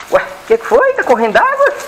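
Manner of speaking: soothing high-pitched pet talk. Real, not acted. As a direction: coo at the nervous dog. Coaxing the dog at bath.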